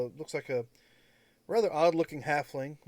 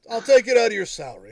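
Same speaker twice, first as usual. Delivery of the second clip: loud joking; 6 semitones higher, 11 dB louder, faster than usual. Acted. NPC jokes loudly.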